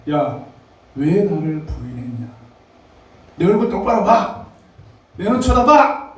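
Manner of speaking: mock scolding that swells to a shout at the end; pretend angry Jesus. Jesus imagined scolding Peter, a rising mock-angry shout. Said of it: "예수님께서 화내셨나?".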